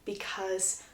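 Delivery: understated tearful resignation with long pauses; near tears. Retold or imitated. Bride answering the man she loves, understated near tears. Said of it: "She's literally about to cry".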